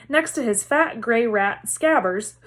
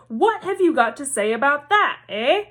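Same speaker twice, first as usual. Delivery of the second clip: shouting mother; 4 semitones higher than usual. Acted. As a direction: hammer each word at him. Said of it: "shouted Missus Weasley".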